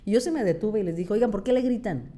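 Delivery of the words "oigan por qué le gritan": higher, mildly indignant challenge; retold confrontation. Retelling stopping to challenge boys shouting at someone, indignant. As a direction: take them to task, pitch raised.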